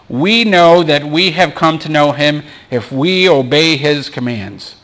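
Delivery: We lifted and leaned on at the start; stress on We. Shown as a demonstration. Pastor rereads the verse to stress We, stressed. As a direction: open the verse by leaning on We. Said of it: "I want to emphasize the word "we".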